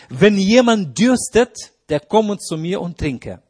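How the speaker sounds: calling out. Acted. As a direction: cry it out as Jesus calling the thirsty. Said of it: "rief und sprach".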